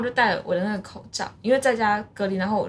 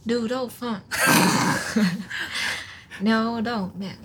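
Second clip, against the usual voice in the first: put-on Japanese accent; slower than usual. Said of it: "我很会学日本人讲中文".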